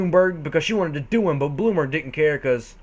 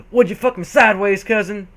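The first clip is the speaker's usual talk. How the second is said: excited tone; 5 semitones higher, 5 dB louder than usual. Acted. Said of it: "he asked in an excited tone".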